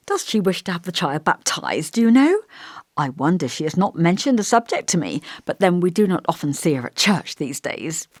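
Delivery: lightly voiced elderly vicar, musing and gentle; thoughtful old vicar.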